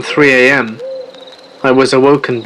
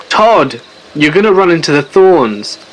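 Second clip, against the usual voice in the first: raised, higher warning shout at a friend; yelling a warning; 4 semitones higher, 4 dB louder than usual. Retold or imitated. Friend yelling at Todd heading for the thorns, louder higher warning. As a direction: call out to stop him, louder and higher. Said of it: "I started yelling".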